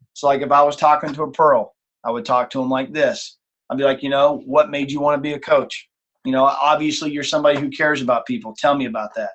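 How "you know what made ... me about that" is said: soft-spoken coach. Shown as a demonstration. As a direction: ease off and ask with real interest. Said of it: "Do you see how the tone of my voice changes?".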